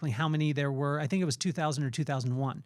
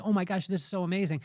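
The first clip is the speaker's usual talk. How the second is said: excited; 3 semitones higher, faster than usual. Retold or imitated. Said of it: "I was screaming to my wife".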